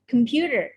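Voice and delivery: computer stressed as com-PU-ter; stress on second syllable. Shown as a demonstration. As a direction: lean on the PU of computer. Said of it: "the second syllable stress is on".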